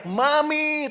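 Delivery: mock a child calling for Mum; imitated child's cry. Drowning child calls out to mother, imitated high cry. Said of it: "Anak saya teriak".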